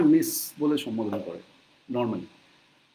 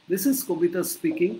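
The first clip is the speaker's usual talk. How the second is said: slow model phrase; 2 semitones higher, slower than usual. Shown as a demonstration. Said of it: "সেই যে খাবারের সময় তো আমি বলেছিলাম".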